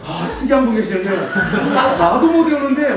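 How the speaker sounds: loud, laughing disbelief; amazed lecturer. Retold or imitated. Teacher imitating other lecturers, loud and laughing. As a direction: exclaim it half laughing. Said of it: "혀를 내두르고 막".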